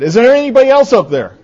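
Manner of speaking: high, hurried call for someone else. Acted. Boy on the cliff to the sky, calling up.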